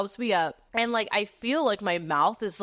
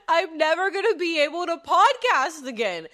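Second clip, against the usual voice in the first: high-pitched mock wail of despair; panicked whining; 8 semitones higher, 4 dB louder than usual. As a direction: whine it like a career-ending catastrophe. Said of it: "because I am freaking out".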